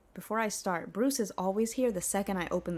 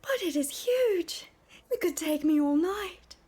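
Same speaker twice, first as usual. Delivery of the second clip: much higher, coy, prim falsetto maid voice; 10 semitones higher, 5 dB louder than usual. Acted. Argonian maid fending off her master in a high, coy voice. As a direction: play the shy maid protesting sweetly.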